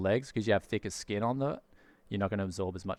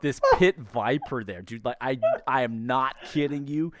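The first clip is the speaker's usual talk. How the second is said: put-on American accent. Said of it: "We did a bit of storytelling".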